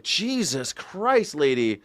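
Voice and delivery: overwhelmed scolding of a frantic talker; exasperated. Acted. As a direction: protest wearily, building in force. Exasperated reply to imagined New Yorker.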